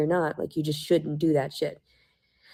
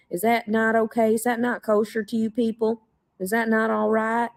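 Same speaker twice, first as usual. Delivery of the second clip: sarcastic challenge; 4 semitones higher than usual. Real, not acted. Needling her accusers with sarcastic questions. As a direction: pitch up and pointed, each question pushed harder.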